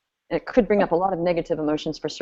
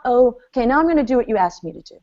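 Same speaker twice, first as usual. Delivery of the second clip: bored compliance; 3 semitones higher, faster than usual. Retold or imitated. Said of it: "it's not".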